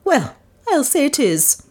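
high, indignant outburst; aroused. A narrator's reading. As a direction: huff back at him. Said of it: "now thoroughly aroused".

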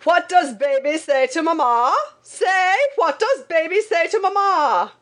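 put-on high-pitched, insistent call to a baby; sustained high calling voice; father's mock shout. A narrator's reading. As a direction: holler it high, like an overbearing papa. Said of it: "Then he would shout".

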